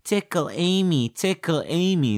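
high-pitched talking ape voice; talking gorilla. Acted. Gorilla Amy asking her keeper for a tickle, high gorilla voice. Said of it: "with a talking gorilla".

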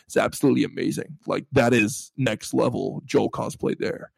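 lightly imitated American accent; Troy Baker. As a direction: have a modest go at an American accent. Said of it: "try and do an American accent".

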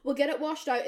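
high, hurried reassurance; calm her down in a high voice; soothing. Retold or imitated. Soothing the stung bridesmaid.

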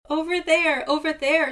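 high, loud squawk. A narrator's reading. Seagull pointing Raven to the chest, high loud squawk. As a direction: squawk it like a frantic bird. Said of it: "squawked Seagull".

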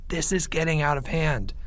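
hushed, soft worried aside; whispered aside. A narrator's reading. Boy to his friend at break, whispered aside. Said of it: "Timmy whispered to Leo".

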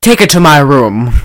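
lightly imitated British narrator; a hint of a cartoon British explorer; Nigel Thornberry. British narrator ordering the assistant about, lightly imitated. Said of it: "He just sounds like Nigel Thornberry".

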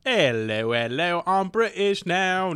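slow, hammed-up British accent. Shown as a demonstration. Guest demonstrates British on request, mock British accent. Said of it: "let's start with British".

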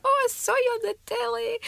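put-on high old lady voice; fond gran impression; imitating gran. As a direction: mimic a sweet elderly gran. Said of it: "she was like".

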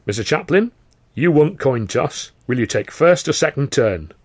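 loud showman's voice; Carno voice. Acted. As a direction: lay out the rules grandly. Carno asks.

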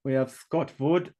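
lightly German-accented roll call; a hint of German accent on the name; slight German accent. Real, not acted. Reading out the chat names to viewers, slight German accent. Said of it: "said that in a slight German accent".

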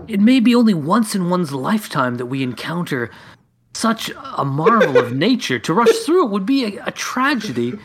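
wonderstruck scholar. Acted. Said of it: "and I say".

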